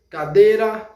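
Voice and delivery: teacher modelling "Cadeira" for the class. Shown as a demonstration. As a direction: say "Cadeira" as ka-DEI-ra, clear and even. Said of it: "Vamos repetir".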